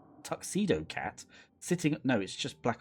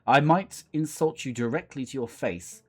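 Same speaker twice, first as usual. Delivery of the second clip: disdainful cat, slowing on the final insult; haughty cat; 3 semitones higher, 4 dB louder than usual. Acted. Cat insults the American guest to their face, haughty. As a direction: deliver the insult grandly, drawing out the end.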